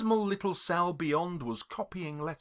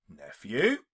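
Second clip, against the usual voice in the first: sternly; 6 semitones lower than usual. Acted. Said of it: "returned the uncle sternly".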